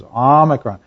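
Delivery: Omicron with a short AH and stress on the first syllable; teaching the right way to say Omicron; short O demo. Shown as a demonstration. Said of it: "That's where the emphasis is".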